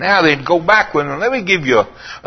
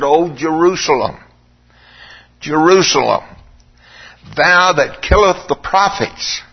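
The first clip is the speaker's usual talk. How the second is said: lamenting; 3 semitones lower than usual. Retold or imitated. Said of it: "he changes his tone".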